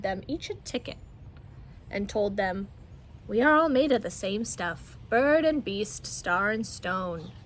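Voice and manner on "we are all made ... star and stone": solemn bear. Acted. Bear speaks solemn words.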